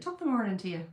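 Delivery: a light Irish lilt on "Top of the morning to you"; a playful, lightly done Irish accent greeting the chat. Shown as a demonstration. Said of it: "So I wanted to say that in an Irish accent".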